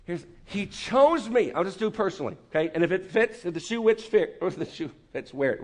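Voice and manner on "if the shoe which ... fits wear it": garbled 'if the shoe which fit'; fumbled idiom. Real, not acted. Pastor fumbling the proverb mid-sermon, garbled. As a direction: trip over the saying 'which fit'. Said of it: "Whatever I said".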